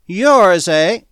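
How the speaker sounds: high, loud, drawn-out croak. A narrator's reading. Drunk drylander questions Smith's claim, croaking. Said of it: "he croaked".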